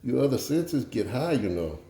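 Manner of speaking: lightly voiced Cajun accent; Justin Wilson. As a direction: explain it with a touch of Cajun. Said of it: "do the Justin Wilson thing and tell a joke".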